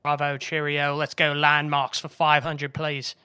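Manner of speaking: a light, playful put-on British accent; mock British accent. Player requesting a category from the host in a mock British accent. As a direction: toss off the words like a jokey posh Brit. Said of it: "He's gonna keep that accent the rest of the episode".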